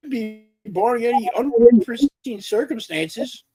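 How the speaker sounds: glitching robot. Real, not acted. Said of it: "You sound like broken Rob robot today".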